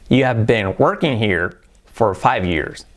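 slow, careful teacher model; slow model sentence. Shown as a demonstration. Teacher models the sentence slowly for students. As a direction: lay each word out slowly. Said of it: "¿Cómo sería eso?".

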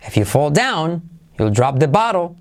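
"down" and "bottle" punched in a rhythmic line; swinging intonation peaking on "down" and "bottle"; stress on down, bottle. Shown as a demonstration. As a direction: hit "down" and "bottle". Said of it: "¿Ves cómo acentúo?".

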